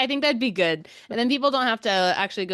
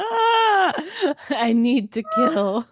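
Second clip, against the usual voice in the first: demon voice; 8 semitones higher, 4 dB louder, much slower than usual. Pretend. Voicing the demon spirit.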